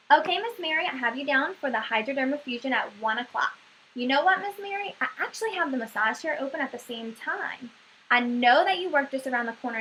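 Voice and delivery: casual, friendly booking patter; light, easygoing receptionist pitch; nonchalant. Shown as a demonstration. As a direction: offer it offhandedly, as a demonstration. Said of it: "I am saying it in a nonchalant way".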